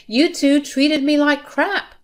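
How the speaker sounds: high, slow, stressed accusation; wronged wife confronting her in-law; indignant accusation. A narrator's reading. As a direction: lay the blame slowly.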